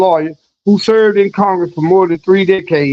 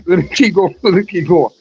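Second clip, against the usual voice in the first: laughing. Real, not acted. Chuckling through the words.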